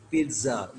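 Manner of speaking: पिज़्ज़ा with the double Z sounded as TS; TS pronunciation. Shown as a demonstration. Teacher sounds out the phonetic spelling, TS pronunciation. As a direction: pronounce पिज़्ज़ा as "peet-sa". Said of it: "टीएसए".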